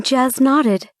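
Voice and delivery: plain reading voice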